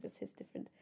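soft breathy whisper of the same words; whispered echo. Shown as a demonstration. Podcaster repeating her phrase to listeners, in a whisper. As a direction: drop to a hushed whisper.

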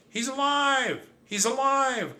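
very high, held joyful cry. Acted. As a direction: cry it out in relief. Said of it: "cried my cousin".

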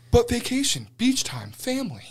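pitched well up, pleading in fun; mock pleading. Telling friends how he begged the cop, mock pleading. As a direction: play the pitiful kid begging.

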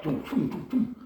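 soft, quick run of dums; imitated rattling noise. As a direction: imitate a stream of talk with nonsense syllables. Imitating rapid divine talk.

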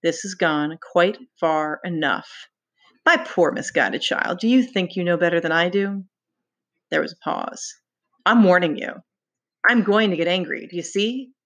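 lightly voiced schoolmaster scolding a pupil. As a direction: schoolmaster lecturing a wayward boy. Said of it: "spoke in the voice of a schoolmaster".

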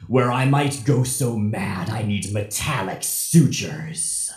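slow, whiny sing-song villain letter; Strife. Acted. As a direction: homesick child-villain voice, drawn out. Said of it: "the mic here goes to Strife".

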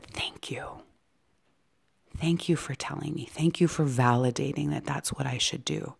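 soft, understated imitation of tearful gratitude; retold tearful thanks. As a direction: quietly voice a tearful thank-you, starting barely audible. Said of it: "looked up through her tears".

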